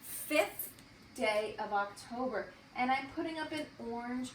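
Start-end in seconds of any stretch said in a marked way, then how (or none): 0.0-0.7 "Fifth" raised, with a clear final TH; clear TH ending. Shown as a demonstration. Teacher modelling a tricky word, "Fifth" with clear TH. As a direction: say "Fifth" higher, sounding out the TH ending. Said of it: "that T H sound at the end".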